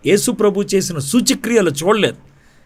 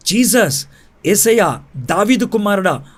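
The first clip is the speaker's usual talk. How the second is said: mildly raised, higher-pitched mock cry; lightly acted plea, pitched up; retold crying out; 4 semitones higher than usual. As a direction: imitate a helpless man calling out, without really shouting. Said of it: "అని అరుస్తూ ఉన్నాడు".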